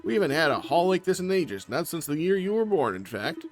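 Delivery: chatty, happy fisherman back from sea; lightly voiced jolly father. Father welcomes son home, lightly voiced jolly fisherman.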